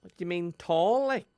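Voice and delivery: lightly voiced Dublin girl accent; a bad Dublin accent, playing a contestant. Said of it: "Very bad Dublin accent".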